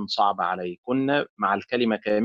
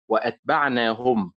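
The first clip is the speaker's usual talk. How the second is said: وأتبعناهم with the stress on هم; wrong stress on ending. Shown as a demonstration. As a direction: push the weight onto the هم of وأتبعناهم. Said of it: "على الهاء".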